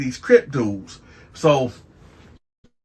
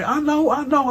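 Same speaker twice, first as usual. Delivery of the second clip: playful. Retold or imitated.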